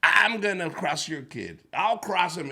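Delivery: put-on loud confident drunk promise; drunk boasting dad. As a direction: boast like a tipsy father.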